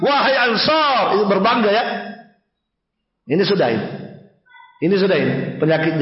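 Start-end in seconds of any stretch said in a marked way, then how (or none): 0.0-1.1 higher-pitched, drawn-out summons; stretched rallying cry, acted; calling out. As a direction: imitate a call to one's clan.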